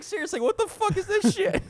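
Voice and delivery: giggling through a crude quote; laughing while quoting. Real, not acted. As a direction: quote the bum while cracking up. Homeless man, teller laughing.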